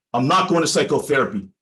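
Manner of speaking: a mild retold flash of anger, falling hard at the end; firm, lightly angry refusal with the end dropping down; a touch of anger as the client digs in; angry retort. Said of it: "Jay said very angrily".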